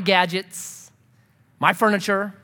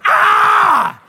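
startled awake; 11 semitones higher, 7 dB louder, much slower than usual. Retold or imitated.

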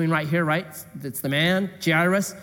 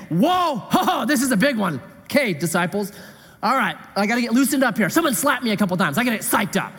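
mock pumped-up Jesus; 4 semitones higher, faster than usual. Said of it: "Jesus didn't say".

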